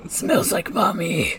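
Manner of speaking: slow creepy whisper. Retold or imitated. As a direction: breathe it out unvoiced. Mocking Robotnik voice, whispered.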